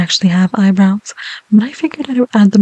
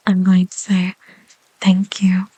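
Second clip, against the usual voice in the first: whisper. Real, not acted. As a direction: breathe the words gently. ASMR whisper.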